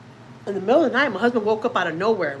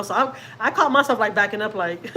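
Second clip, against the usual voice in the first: laughing. Real, not acted. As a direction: giggle at how silly it was. Laughs at her own fear.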